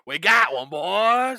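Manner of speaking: loud, high triumphant yell; excited hunter shout. Retold or imitated. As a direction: cheer like a yeti hunter who found one. Mock yeti hunters celebrating.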